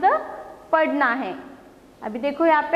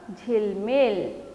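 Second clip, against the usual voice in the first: slow blended word; 3 semitones lower, much slower than usual. Shown as a demonstration. Teacher blends syllables into word.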